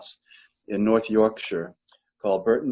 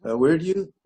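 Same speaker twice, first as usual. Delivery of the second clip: a touch of British, pitched up high; lightly imitated British woman agreeing readily; British accent; 7 semitones higher than usual. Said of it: "she has a British accent".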